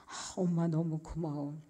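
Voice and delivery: soft, heartfelt gratitude; tender thanks. Retold or imitated. Daughter grateful for mother's hardship, tender soft thanks. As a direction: thank her softly after a pause.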